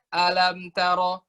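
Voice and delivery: "Alam tara" read slowly, rising like a staircase; rising step intonation. Shown as a demonstration. Teacher showing the correct stepped tune of "Alam". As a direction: let "Alam" climb step by step. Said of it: "Alam harus dibacanya kayak tangga".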